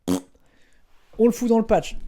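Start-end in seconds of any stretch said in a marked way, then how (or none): 0.1-0.2 short lip-blown fart sound; comic puff through the lips; imitated fart noise. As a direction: blow a quick raspberry. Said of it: "Pas forcément avec un bruit de paix".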